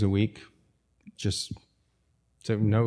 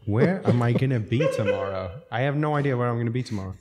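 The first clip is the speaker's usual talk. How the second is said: laughing nervous inner voice. Retold or imitated. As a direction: giggle through the panic, quickly. Panicked inner thoughts, laughing.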